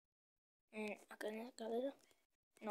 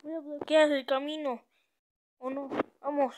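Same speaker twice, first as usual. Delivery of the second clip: tense; 3 semitones higher, 11 dB louder than usual. Real, not acted. Still fleeing the monster.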